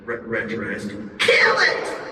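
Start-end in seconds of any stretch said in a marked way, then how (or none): 1.2-2.0 high, urgent shout; shouted order. Acted. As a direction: bark the kill order. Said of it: "Genesis shouted".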